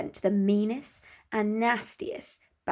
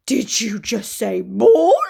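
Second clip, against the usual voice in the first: slow, louder delighted wolf; eager wolf; 9 dB louder, slower than usual. Acted. The wolf asks Gertie, slow and eager. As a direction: savour the word ball.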